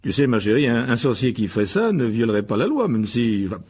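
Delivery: stammering, hesitant self-justification; flustered excuse-making. Acted. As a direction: talk your way out, stumbling on words. Guilty husband stammers excuses to wife. (se justifier en bafouillant)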